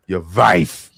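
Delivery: laughing mock accent. Friend laughing while repeating it. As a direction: giggle through the imitation. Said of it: "She said that shit like it was a cuss word".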